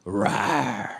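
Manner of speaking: low fake monster growl to scare a kid; mock growl. Comedian growls at a toddler in mock anger. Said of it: "performative anger".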